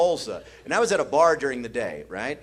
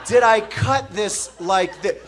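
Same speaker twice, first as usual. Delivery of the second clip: mock indignant; 4 semitones higher than usual. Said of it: "I just went".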